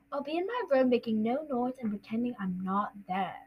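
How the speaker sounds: put-on soft, monotone boy's recital; Harry. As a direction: drone it meekly by rote. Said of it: "it's Harry".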